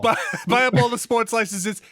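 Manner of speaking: high, loud comic bossy rant; hammed-up big-shot demand, pitched high; mock blustering executive. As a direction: order people about like an excitable tycoon. Mocks an EA boss buying licenses.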